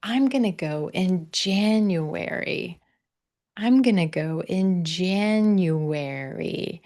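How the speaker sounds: slow, clear model of I'm gonna go in January; model sentence. Shown as a demonstration. Coach gives students the answer to copy, slow and clear. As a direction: say it slowly as the model line. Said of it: "I want you to try".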